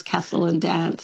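"castle and dance" with short a as in "cat"; old Melbourne short-a "castle and dance"; Melbourne pronunciation. Shown as a demonstration. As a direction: say "castle and dance" as KASS-ul and danss. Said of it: "And in, in Melbourne".

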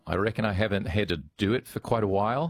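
a shaky Australian accent drifting toward Kiwi; a hesitant Australian accent that slips toward New Zealand. Shown as a demonstration. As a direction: try an Aussie accent, laughing through it. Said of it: "you rolled a bit towards Kiwi land".

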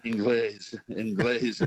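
Inglés in a light imitation of a Spanish worker, Een-GLES; Spanish accent. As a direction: mimic Spanish workers saying English as Inglés. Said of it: "they said".

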